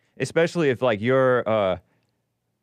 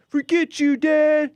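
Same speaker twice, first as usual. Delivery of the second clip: high, sharp retort at dad; angry outburst; 4 dB louder, slower than usual. Retold or imitated. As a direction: snap it back, much higher. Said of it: "You know how people are like".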